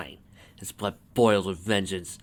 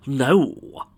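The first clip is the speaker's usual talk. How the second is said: loud, raised, drawn-out exclamation; higher, forceful outburst; exclaimed refusal; 5 semitones higher, 7 dB louder than usual. A narrator's reading. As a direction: cry out the refusal. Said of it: "he exclaimed".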